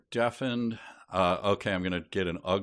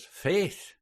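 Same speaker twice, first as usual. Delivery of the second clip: high-pitched exclamation in character; exclaiming professor; 12 semitones higher than usual. Acted. Dublin professor exclaiming to colleagues, exclaiming character voice. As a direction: burst out as an indignant professor. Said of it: "the Dublin professor".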